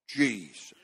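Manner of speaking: low, soft, lingering Jesus; hushed reverent name. Real, not acted. Preacher savoring the name before his congregation, hushed and reverent. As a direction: breathe the name Jesus softly in awe. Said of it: "I just like the way that sounds".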